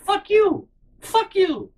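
upset high-pitched retort. Retold or imitated. Telling off his family, in an upset voice gone very high. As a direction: voice jumps way up, upset and out of words. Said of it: "your voice just goes up really high".

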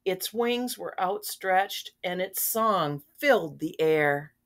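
put-on gentle read-aloud for children, unhurried; storybook reading. A narrator's reading. Grandma reading a picture book to children, gentle read-aloud. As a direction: read the story to the little ones.

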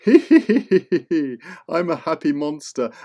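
slow, laughing monster voice; laughing happy monster. Acted. Happy monster introducing itself to kids, slow and laughing. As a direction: chuckle through it like a jolly beast.

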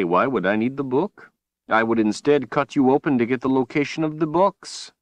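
a taunting sorcerer pressing his point. Acted. Villain Rahl, higher, louder.

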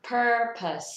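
"purpose" as stressed PUR and weak "pəs"; correct pronunciation. Shown as a demonstration. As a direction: drop to a short "pəs", never "pose". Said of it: "không phải pose nhá". (đọc chuẩn "purpose": PUR-pəs)

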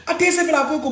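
ordinary talk, nothing marked

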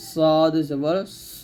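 thick, rounded "স" in "সদ জবর স"; heavy letter. Shown as a demonstration. Teacher showing learners the letter, "স" said heavy. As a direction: say "সদ" and "স" heavy and full. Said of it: "বলতে হবে মোটা করে".

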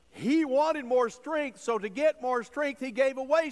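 emphatic preaching. Real, not acted. Preacher builds emphatic point.

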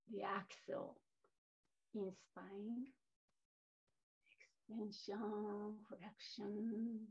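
gentle, slightly softened guiding voice; guided meditation. Real, not acted. Teacher guiding yogis to listen to their body, guided meditation. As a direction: ease them inward with spaced-out phrases.

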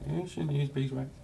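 high mock-nagging voice; mocking the warning. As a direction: ape the warning. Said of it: "People say".

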